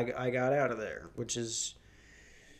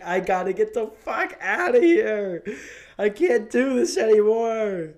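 laughing mock despair; 9 semitones higher, 6 dB louder than usual. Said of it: "I just broke down crying".

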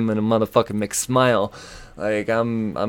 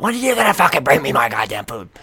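retold yell; 4 semitones higher, 3 dB louder, faster than usual. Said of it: "I yell out".

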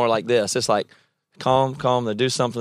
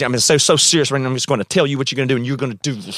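deadly serious; faster than usual. Shown as a demonstration. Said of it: "talking right here".

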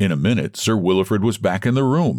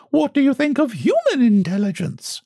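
much higher, weak society voice; lame question. A narrator's reading. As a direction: ask it feebly and awkwardly. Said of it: "asked Mavis Pellington lamely".

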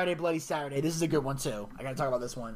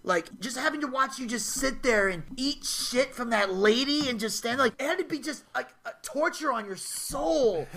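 acted rant; 5 semitones higher than usual. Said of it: "Kevin goes on this rant".

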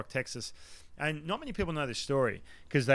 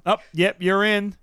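loud, raised-pitch summons; calling out; 5 semitones higher, 8 dB louder, slower than usual. Retold or imitated. Imitating the call to the reliever to go in, calling out. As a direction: call it out like a coach sending someone in. Retold bullpen call to enter game.

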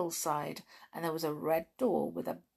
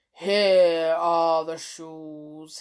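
grumpy gnome; 7 dB louder, much slower than usual. Acted. Gnome hands over the shoes.

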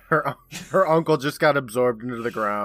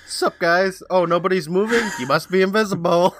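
higher-pitched casual lizard; 6 semitones higher, 3 dB louder than usual. Acted. Co-host joins in as the oblivious lizard, jokey lizard voice. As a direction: play a lizard greeting the guys, pitched up.

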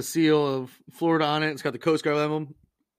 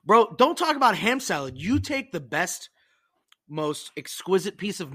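mock outrage; 4 semitones higher than usual. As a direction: act offended about food. Mock rant over ham salad.

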